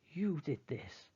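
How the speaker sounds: slow snarl. Acted. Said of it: "snarls Father".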